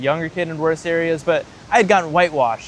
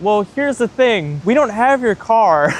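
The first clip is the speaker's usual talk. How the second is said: reluctant confession; 5 semitones higher, 3 dB louder, slower than usual. Retold or imitated. Acts friend confessing missing car to mother.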